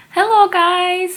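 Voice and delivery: high, laughing hello to viewers; bright laughing hello. Real, not acted. Vlogger greeting her viewers, laughing and high.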